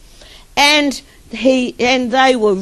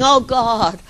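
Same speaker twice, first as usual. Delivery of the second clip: mock crying plea; 3 semitones higher than usual. Man prays over dead tortoise, mock crying plea. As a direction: imitate a desperate prayer, building on each cry.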